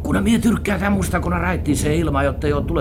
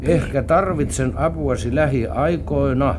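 slow, deliberate letter reading; reading a letter aloud; 2 semitones lower than usual. Acted. Man reads a found letter to partner, deliberately. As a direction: read it out word by word, slowly. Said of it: "Katsotaanpas, mitä siinä sanotaan".

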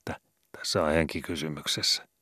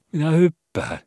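much higher, loud scared call; desperate cry; 13 semitones higher, 8 dB louder than usual. A narrator's reading. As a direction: blurt it out in panic. Frightened cantor on ship.

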